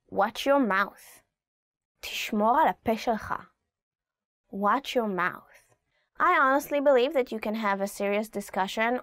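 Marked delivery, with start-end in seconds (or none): 0.1-1.2 "Watch your mouth" drawn out, heavy on "your"; slow it down to warn. Shown as a demonstration. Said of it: "translation said slowly". 4.5-5.8 "Watch your mouth" very slow, stress on "your"; slow warning. Shown as a demonstration.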